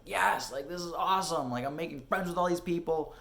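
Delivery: delighted. Retold or imitated. Actor greeted by the producer on set, delighted. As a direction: gush with mild excitement.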